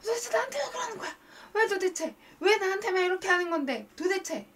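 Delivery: high, loud exasperated outburst; angry venting at phone. Shown as a demonstration. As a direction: vent the anger as if at the person. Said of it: "그 핸드폰을 그 사람이라고 생각하고 계속 얘기하는 거야".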